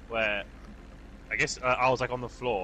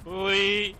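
playful squeal; 9 semitones higher, 7 dB louder than usual. Pretend. Follows talk of Scottish accent.

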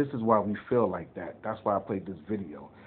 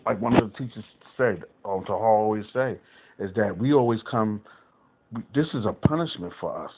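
louder, driving sermon delivery; raising his voice to preach to the brothers; street preaching; 4 dB louder than usual. Acted. Preaches with rising force.

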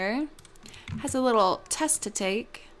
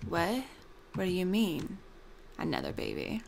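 dumbfounded; 2 semitones lower, 6 dB quieter than usual. Acted. Gamer voicing husband reacting to another baby, dumbfounded. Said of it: "It's exactly what his face did".

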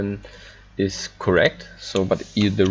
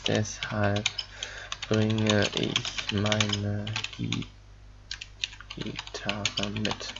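slow careful reading; 10 dB quieter, much slower than usual. Shown as a demonstration. Reading German example sentence slowly.

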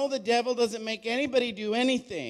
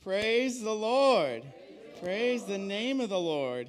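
louder call. Real, not acted. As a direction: call out for a response. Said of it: "I'm looking for a response".

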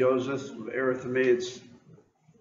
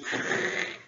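imitated rushing noise; 6 dB quieter than usual. Imitates Lazarus coming out of tomb.

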